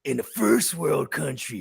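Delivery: slow, measured imitation of dad; drawn-out words, mimicking a father's emphasis; dad's cadence. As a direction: lightly imitate dad's deliberate lecturing cadence. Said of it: "He talks like that too. That's, like, his cadence".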